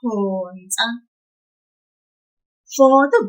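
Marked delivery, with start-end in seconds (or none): 0.0-0.9 Phonsa, lower, with a lengthened "Pho"; pulled syllable. Shown as a demonstration. Teacher repeating the tip for learners, Phonsa with "Pho" drawn out. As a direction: hold the first syllable of Phonsa, "Phooo-nsa". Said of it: "Did you hear that?".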